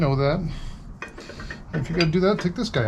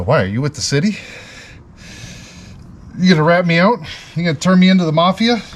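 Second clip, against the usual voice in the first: louder joking suspicion, like you're being busted; mock paranoid; 3 dB louder than usual. Joking back to a customer, mock paranoid. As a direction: play paranoid about the city.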